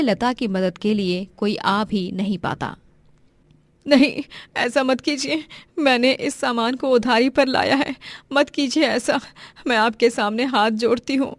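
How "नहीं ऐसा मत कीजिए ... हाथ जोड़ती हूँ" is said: raised-pitch, distressed begging; desperate pleading. Acted. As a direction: plead with them to stop. Woman begs men to stop. (गिड़गिड़ाती, परेशान आवाज़)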